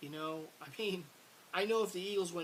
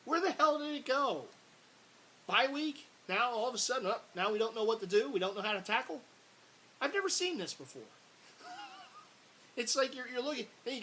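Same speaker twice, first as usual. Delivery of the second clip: high, loud outraged questions; furious rant; 7 semitones higher, 6 dB louder than usual. Real, not acted. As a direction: blow up at the defense after the bye week. Fan ranting about defense.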